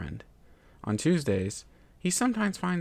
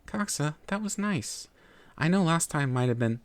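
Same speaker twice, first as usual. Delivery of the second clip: sweet, higher put-on niceness; fake sweet; 6 semitones higher than usual. To Coxa after the act, fake-smiling sweetness. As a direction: paper over the hurt with a forced smile. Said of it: "put on a fake smile and say".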